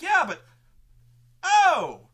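very high, loud stunned oh. Retold or imitated. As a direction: realise it too late. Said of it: "And they're like".

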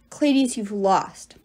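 slow, firm snarl; a touch of a snarl, slow and deliberate. Acted. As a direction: bite out each word at the enemy. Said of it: "Hazel snarled".

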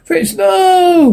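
high shouted cry of no; sudden shouted no. Acted. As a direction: cry out the no in despair. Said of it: "weeps salesman".

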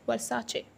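Versace as ver-sah-chay, slow; correct pronunciation. Shown as a demonstration. Teacher slowly modelling ver-sah-chay. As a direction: end Versace on an 'ay'. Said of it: "last में A है".

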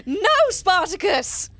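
loud, high scolding of the dog; scolding shout. Retold or imitated. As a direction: tell the dog off.

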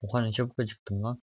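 hiccuping between words; with hiccups. Real, not acted. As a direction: speak through the hiccups. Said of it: "Hıçkırık tuttu".

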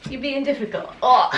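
chuckling through the words; laughing. Real, not acted. Puppy squirming.

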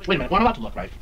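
startled gasp, then sheepish; surprised. Retold or imitated. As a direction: caught yourself looking. Married woman catching herself looking.

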